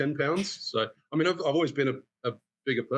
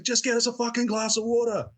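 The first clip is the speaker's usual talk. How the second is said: angry yell; 11 semitones higher than usual. Retold or imitated. Customer yelling at the bartender for water, angry mock shout. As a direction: snap it like a rude pushy customer. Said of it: "he's, like, yelling at".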